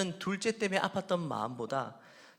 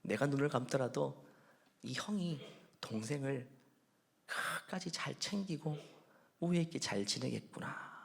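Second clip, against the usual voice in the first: quietly glad father; 2 semitones lower, 6 dB quieter than usual. Retold or imitated. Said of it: "속으로 너무너무 기뻤을 거예요".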